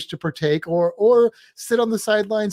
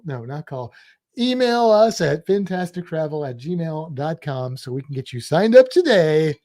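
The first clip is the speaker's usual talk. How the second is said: salesman voice. Pretend. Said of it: "There, there's my salesman voice".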